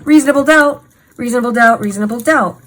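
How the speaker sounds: loud then fading, punched each time; emphatic exclamation. Real, not acted. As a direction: start big and let it fall away.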